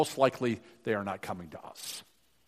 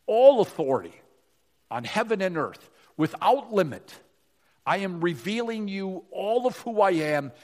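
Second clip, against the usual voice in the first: louder, higher, emphatic proclamation; Jesus declaring authority; 4 semitones higher, 5 dB louder than usual. Acted. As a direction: declare it forcefully, hitting each big word. Preacher voices Jesus declaring full authority.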